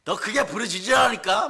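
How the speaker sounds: mocking taunt. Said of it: "막 이러면".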